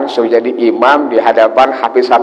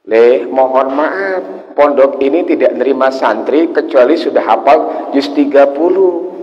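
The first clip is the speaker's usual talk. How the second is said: gentle refusal. Acted. Kiai gently refuses the boy.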